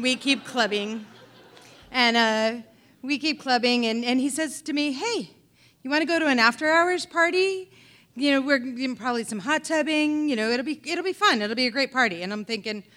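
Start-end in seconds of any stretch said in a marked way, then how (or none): 4.9-12.2 higher, louder, selling the after-hours party; eager invitation. Retold or imitated. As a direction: pitch it like the best idea ever. Dave pitching the party eagerly.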